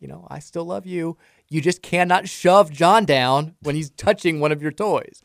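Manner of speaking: measured parent voice, slowing down; staying calm. Retold or imitated. Dad to his upset daughter, deliberately calm and firm. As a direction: imitate a patient dad laying down a rule. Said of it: "And I stay calm".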